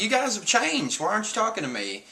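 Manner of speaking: high-pitched little character voice; Chopper. Retold or imitated. Chopper asking why friends won't talk to him, high imitated voice. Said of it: "Chopper's like".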